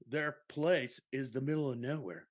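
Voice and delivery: bro storyteller stretching the punchline; surfer-dude bro. Retold or imitated. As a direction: tell it like a party dude, dragging the last words. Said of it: "that's how I feel you talk".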